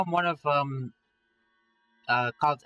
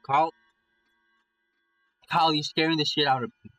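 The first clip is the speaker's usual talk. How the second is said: loud, raised-pitch plea; frightened plea; 2 semitones higher, 7 dB louder than usual. Acted. Scared friend begging Carl to stop, frightened plea. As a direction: call out to him, losing nerve. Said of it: "My voice is weak and it crackles at the end".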